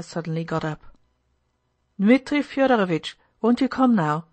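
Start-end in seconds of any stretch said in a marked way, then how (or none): 2.0-4.2 raised, higher-pitched call from a doorway. Acted. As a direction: call across the shop to hurry someone. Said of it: "called Andrei from the door of the shop".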